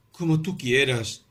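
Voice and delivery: eerie, slow submission; mysterious tone. A narrator's reading. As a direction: say it as if hiding a secret. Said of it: "en un tono misterioso".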